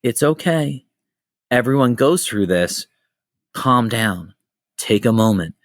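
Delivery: calm, spaced-out comforting phrases; gentle imitated calming-down; retold reassurance. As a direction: imitate someone soothing a frazzled parent, pausing after each phrase. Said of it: "puts their hand on your shoulder".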